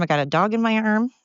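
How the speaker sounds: winded while walking dogs; breathless, talking on the move; out of breath. Real, not acted. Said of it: "I'm out of breath, and I'm winded".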